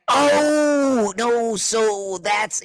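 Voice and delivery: long drawn-out high "oh"; slow, high, mock-crestfallen stammer; deflated realization. Officer realizes his joke is gone, deflated.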